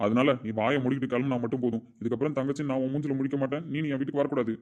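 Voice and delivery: normal talking voice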